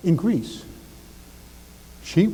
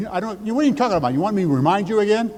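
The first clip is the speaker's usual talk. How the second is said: exasperated wife; 6 semitones higher, faster than usual. Acted. Wife's retort voiced.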